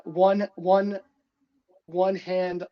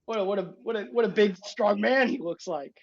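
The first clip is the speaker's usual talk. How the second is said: admiring old guy, lightly voiced; a hint of the old driver, impressed; old man character; 3 semitones higher than usual. Old driver admiring Jackie's big friend, lightly voiced.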